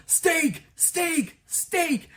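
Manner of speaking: high, drawn-out dreamy longing for each "steak"; dreamy food craving. Retold or imitated. Hungry Garfield to the vision of steak, high dreamy longing. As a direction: moon over the food in a high voice. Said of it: "he goes".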